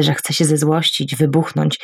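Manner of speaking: usual speaking voice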